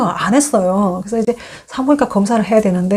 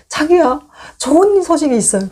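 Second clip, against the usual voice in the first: higher, sugary voice for her husband; sweet coaxing wife; 6 semitones higher than usual. Retold or imitated. Wife teasing husband with good news, sweetly higher. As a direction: coo it like a sweet surprise. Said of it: "정말 이쁜 얼굴을 하면서".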